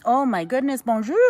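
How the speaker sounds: loud, high excited greeting; delighted surprise. Real, not acted. Host spotting a viewer from France, delighted surprise. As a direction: burst out with happy surprise.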